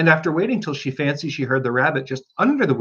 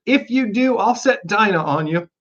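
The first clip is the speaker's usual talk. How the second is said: calling out loud; 7 semitones higher than usual. A narrator's reading. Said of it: "called out as loud as she could".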